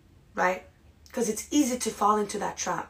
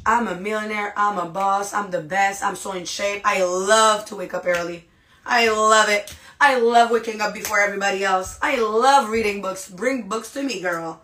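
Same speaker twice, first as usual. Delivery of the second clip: emphatic self-affirmation; 4 dB louder than usual. Acted. Models boastful positive self-talk.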